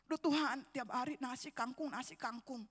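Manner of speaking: retold complaint. Preacher retells his complaint to God over daily meals, grumbling. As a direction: grumble a prayer, letting it die away softly. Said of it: "Saya ngeluh terus".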